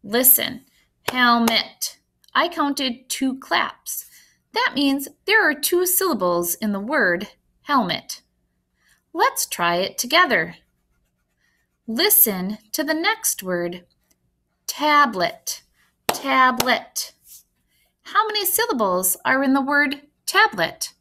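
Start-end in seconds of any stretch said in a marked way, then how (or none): 1.1-2.0 "helmet" clapped out in two beats; "helmet" with each syllable punched separately; split into syllables. Shown as a demonstration. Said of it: "clap once for each syllable". 14.7-17.1 "tablet" in two distinct beats; teacherly "tablet", syllable by syllable; split into syllables. Shown as a demonstration. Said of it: "clap once for each syllable".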